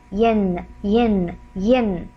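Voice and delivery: "yin" repeated as a separate, drawn-out syllable; "yin", y gliding into a held n; demonstrated yin sound. Shown as a demonstration. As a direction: say each "yin" slowly, falling. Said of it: "It will give us the sound".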